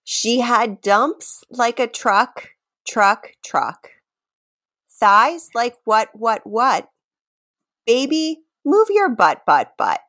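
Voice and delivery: deliberate spoken recital of song lyrics; lyric reading. Pretend. Host reads quiz lyrics for the guesser, deliberate recital. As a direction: recite the lyrics slowly, pausing between the echoed words.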